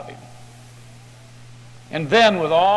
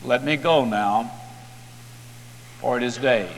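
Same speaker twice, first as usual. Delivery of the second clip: strange voice; 4 semitones lower, 5 dB quieter than usual. A narrator's reading. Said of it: "a strange voice says to him".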